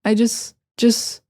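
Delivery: "just" ending on the S, no T; casual "jus" for "just"; dropped T. Shown as a demonstration. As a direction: leave the T off "just". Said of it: "instead of just".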